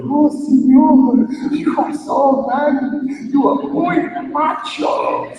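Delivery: high, slow admiring coo; swooning girl. Acted. Girl admiring Bob's story, high swooning coo. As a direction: swoon over him. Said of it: "The girl was".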